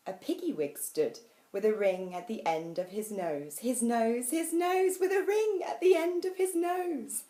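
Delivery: rising from animated reading to high, loud chant; excited building refrain. A narrator's reading. Host reading the pig's nose refrain to guests, climbing playfully.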